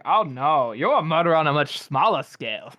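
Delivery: teasing, swooping retort with punched words; mock put-down. She corrects him about being a general, mocking put-down. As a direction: deflate him with exaggerated, lively mock sympathy. Retold mocking comeback to character.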